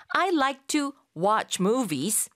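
words stretched, set in a different voice colour; very slow model. Shown as a demonstration. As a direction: model it slowly for the class. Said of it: "라고도 말할 수가 있습니다".

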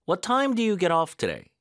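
"time" lifted high; slow question, "time" stressed. Shown as a demonstration. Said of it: "강세를 어디다 넣어야 되는지".

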